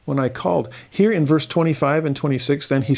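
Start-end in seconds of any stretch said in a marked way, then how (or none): 0.0-0.7 sorrowful plea. Acted. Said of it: "just the sorrow on his part".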